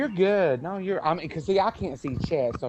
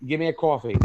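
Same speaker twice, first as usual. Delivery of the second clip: put-on New York accent; faster than usual. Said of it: "like me living in New York".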